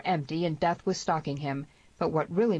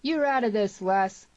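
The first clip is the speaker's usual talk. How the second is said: high, raised shouted order; 6 semitones higher, 4 dB louder than usual. A narrator's reading. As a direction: shout him out of the fight. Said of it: "shouted the voice of Joe Peyton".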